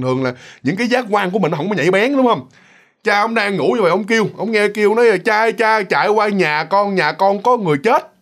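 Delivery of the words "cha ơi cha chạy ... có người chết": blunt call. Retold or imitated. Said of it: "nói rất là thẳng thừng chứ không có nói lịch sự nữa".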